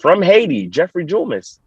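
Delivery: lightly voiced stadium announcer. Announcer presents him to the crowd, mock announcer voice. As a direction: imitate the announcer introducing a runner. Quoting announcer calling his name.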